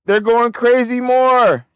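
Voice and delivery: high, drawn-out stunned cry at the chart; real shock as the price shoots up, slow and loud; real excitement. Real, not acted. Stock price shooting up live.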